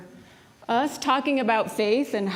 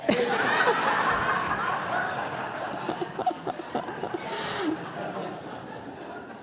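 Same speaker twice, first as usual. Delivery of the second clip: high, breathy burst of laughter; real laughter at the punchline; preacher cracking up at her own joke; laughing at own joke; 12 semitones higher, 4 dB quieter than usual. Real, not acted.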